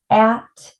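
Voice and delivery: AT held, split from the first sound; sounds stretched apart. Shown as a demonstration. Teacher showing her arm taps, sounds stretched apart. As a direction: say AT as separate, lengthened sounds. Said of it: "let's arm tap it".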